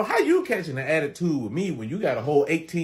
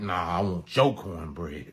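put-on bratty kid; 10 semitones lower, slower than usual. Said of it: "these little assholes will be out here like".

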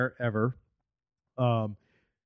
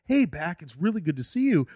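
sincere greeting; 3 semitones higher than usual. Retold or imitated. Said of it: "comes up to you in Boston".

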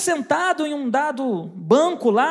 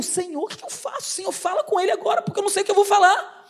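retold inner pleading; 3 semitones higher, faster than usual. Salesman begging the Lord to speak to the man, panicky. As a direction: pitch climbing into a rushed plea. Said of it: "uma luta aqui dentro".

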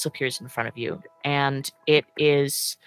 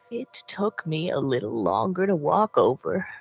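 put-on old woman voice. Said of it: "I don't think her voice is young".

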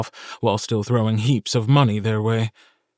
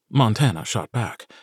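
ordinary delivery, nothing marked

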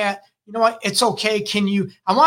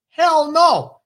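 emphatic refusal; 10 semitones higher, 5 dB louder than usual. Real, not acted. Rejecting society's rule.

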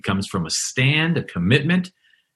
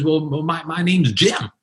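higher, brighter retold answer; light up as you give your name; lit up; 7 semitones higher than usual. Second Jim answers reporter, lit up and higher. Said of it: "And this guy was lit up".

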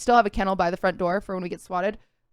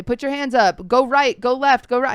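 barked commands, louder than her usual voice; retold police yelling; 4 semitones higher, 6 dB louder than usual. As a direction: bark the orders like a cop. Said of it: "they instantly start yelling at you".

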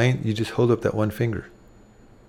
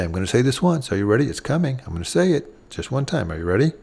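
soft and gentle; faster than usual. Shown as a demonstration. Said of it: "softly and gently".

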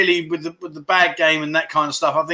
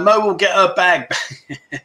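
laughing while reading; slower than usual. Real, not acted. Laughs reading a chat comment.

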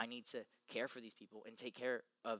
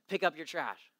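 loud call across the field, higher and louder; teacher calling out; 4 semitones higher, 11 dB louder than usual. Retold or imitated. Mister McGill calling students to pick up trash, shouting. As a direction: yell it across the soccer field. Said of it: "Mister McGill says".

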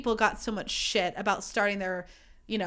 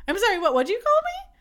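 mock offended; 3 semitones higher, 4 dB louder than usual. Mock-offended rant at TikToker.

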